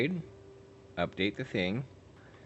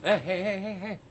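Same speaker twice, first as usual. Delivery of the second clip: high, loud excited heys; rising hype; 11 semitones higher, 5 dB louder than usual. Real, not acted.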